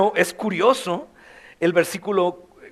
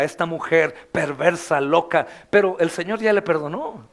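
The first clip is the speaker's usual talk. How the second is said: mock gossip. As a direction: mutter it like a scornful neighbour. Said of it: "como a esa mujer la veían la sociedad".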